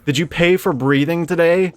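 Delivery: mock greedy innkeeper. Innkeeper turning away the old man, loud sneering refusal. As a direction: sneer like a heartless landlord. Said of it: "And you're like".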